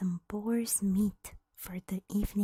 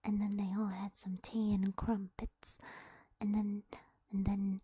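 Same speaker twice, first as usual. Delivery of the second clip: whispered mock British accent. Shown as a demonstration. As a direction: tell it like a cheeky British storyteller. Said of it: "Read a British tale with British accent".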